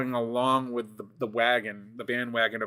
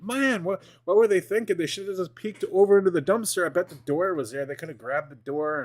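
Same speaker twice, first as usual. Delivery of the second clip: higher, baffled disbelief; incredulous; 4 semitones higher than usual. Retold or imitated. To the viewers, mocking the YouTube dudes, baffled. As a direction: scoff at what those two guys missed. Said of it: "And I'm like".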